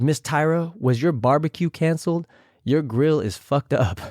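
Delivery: imitating Jujubee. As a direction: sweetly needle Tyra about her teeth. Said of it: "I tried my best to imitate them".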